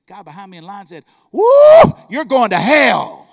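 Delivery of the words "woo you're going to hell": sudden loud, drawn-out holler; mock shouted outburst. Man in line warning the angry clerk, loud holler. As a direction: holler it slowly like a shocked bystander.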